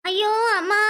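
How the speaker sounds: a sharp cry of sudden pain; wife cries out in stomach pain. Acted. Wife to husband, crying out in pain. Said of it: "ஏய், ஏய், என்னாச்சு".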